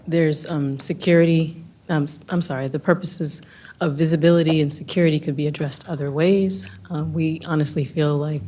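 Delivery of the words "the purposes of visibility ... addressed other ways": slightly hoarse, strained voice; hoarse, voice going; losing voice. Real, not acted. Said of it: "kinda losing my voice".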